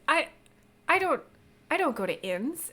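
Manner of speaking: sharp, high, loud affronted burst; offended. Acted. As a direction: bristle at the very idea. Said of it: "she looks mightily offended".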